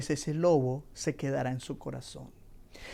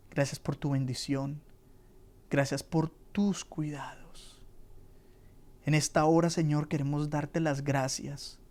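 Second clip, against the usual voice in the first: closing prayer. Acted. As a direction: pray humbly aloud for the listeners.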